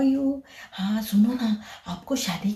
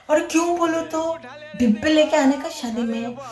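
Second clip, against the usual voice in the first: surprised; 6 semitones higher than usual. Acted. Asks why bring boxes.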